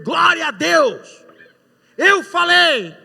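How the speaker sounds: high, loud, slow cry of praise; joyful shout. Retold or imitated. Winner shouting praise from the back of the room, loud and high. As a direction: shout it out over the crowd.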